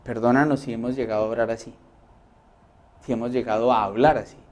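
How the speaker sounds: soft, low repentant plea; humble prayer. Acted. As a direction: pray it quietly, asking forgiveness. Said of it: "Y uno dice". (oración suave de arrepentimiento)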